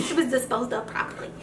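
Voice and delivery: softly spoken mock mobster; a hint of a mobster, kept quiet. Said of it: "You gotta say it like a mobster".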